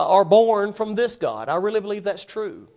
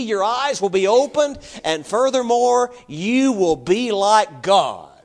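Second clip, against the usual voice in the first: preacher voicing Satan, louder and higher, insistent; urging tempter; 5 semitones higher, 6 dB louder than usual. Preacher acting Satan tempting Eve with the fruit, urgent and persuasive. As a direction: sell it hard, stretching out the key promises. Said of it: "Satan says to her".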